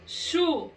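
"Chupeta" as chu, pe, ta, far apart; sílaba por sílaba. Shown as a demonstration. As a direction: leave long pauses inside "Chupeta". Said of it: "Eu peguei as sílabas". ("Chupeta" silabado, com pausas longas)

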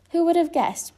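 high, loud, merry delivery; amused exclamation. A narrator's reading. Bear marvels at the scariest costume, amused and high. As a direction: marvel at the joke, laughter implied. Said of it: "Pooh laughed".

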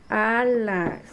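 "alas" with a long opening a; sustained a leading into "alas"; initial-sound demo. Shown as a demonstration. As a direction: stretch the first vowel of "alas". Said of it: "comienzan con la letra que hace A".

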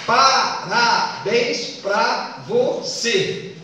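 very slow, each syllable of "Parabéns pra você" separate; teacher scanning a verse syllable by syllable; counting out syllables. Shown as a demonstration. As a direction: chop "Parabéns pra você" into six spaced beats. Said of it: "Só tem seis sílabas".

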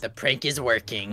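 low, soft aside; secret scheming aside. Pretend. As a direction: confide it quietly to the audience. Secret aside about the prank.

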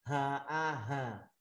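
"Hà a hà" slow, on breath from the chest. Shown as a demonstration. Teacher showing the bass letter, chest-breath "Hà". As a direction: push each "Hà" out from the chest in a bass voice. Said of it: "Giọng bass từ hơi thở trong lồng ngực đi ra".

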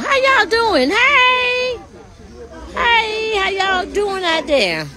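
high, friendly call across the lot. Real, not acted. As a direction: hail the folks outside. Calling out to people outside.

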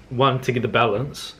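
usual speaking voice

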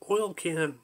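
mildly whimpered plea; a small put-on voice pleading; little whimpering voice. A narrator's reading. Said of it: "A little voice whimpered".

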